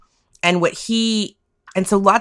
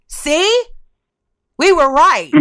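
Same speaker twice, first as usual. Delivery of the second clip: high, louder gloating told-you-so; smug vindicated loner; 10 semitones higher, 7 dB louder, slower than usual. Retold or imitated. Paranoid shut-ins gloating at the world, high smug crowing. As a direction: crow like a paranoid loner finally proven right. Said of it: "these people were like".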